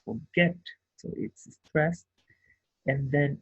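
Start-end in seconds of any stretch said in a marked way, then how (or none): 0.0-0.6 "forget" with the second syllable "get" raised and hit; teacher demo of "forget" with stress on "get". Shown as a demonstration. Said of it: "the last syllable is stressed".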